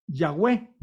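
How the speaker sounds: Yahweh with a "gweh" second syllable; Yahweh pronunciation. Shown as a demonstration. Teacher showing the theoretical sacred name, Yahweh pronounced "ya-gweh". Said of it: "en teoría se pronuncia el nombre".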